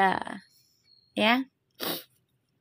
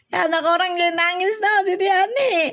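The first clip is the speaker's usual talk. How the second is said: mock scolding; 7 semitones higher, 3 dB louder than usual.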